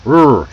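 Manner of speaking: er held with a strong curled R; American er. Shown as a demonstration. Teacher drilling the R sound, held er. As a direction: draw out er with the tongue pulled back. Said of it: "really work that er".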